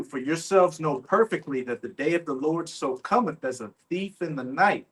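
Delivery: declaimed Bible verse; scripture reading. Real, not acted. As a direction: read the verse out firmly to a crowd. Reads scripture aloud.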